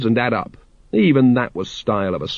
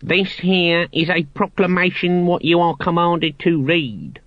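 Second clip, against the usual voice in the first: higher, declaiming guard voice; loud official proclaiming; 7 semitones higher than usual. A narrator's reading. Guard orders the Watch to read the proclamation, loudly. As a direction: announce it officiously, without real shouting. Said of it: "said the guard loudly".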